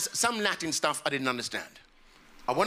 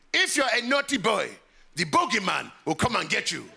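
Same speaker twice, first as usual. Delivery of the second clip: mock-menacing parental warning; put-on dad voice; 3 semitones higher than usual. Dad warning his naughty boy, mock menace. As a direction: scare a child with a lightly put-on father's voice. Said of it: "obviously not in that voice".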